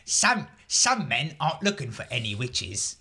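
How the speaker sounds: a light, half-hearted Michael Caine voice; Michael Caine impression. Podcast host tries his Michael Caine voice, lightly imitated. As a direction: toss off a rough Michael Caine line. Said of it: "I can't do his voice today".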